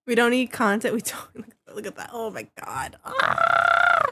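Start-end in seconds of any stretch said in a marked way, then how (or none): 1.7-4.1 squealing with laughter; laughing shriek. Real, not acted. Laughing outburst.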